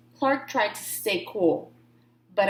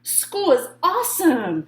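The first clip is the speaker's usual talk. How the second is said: loud, high excited shout; 7 semitones higher, 6 dB louder than usual. A narrator's reading. Shark shouting his love of school to everyone. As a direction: belt it out like an excited kid. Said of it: "shouted Clark the shark".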